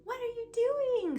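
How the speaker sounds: high, surprised cry of a mother. Retold or imitated. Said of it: "So she goes".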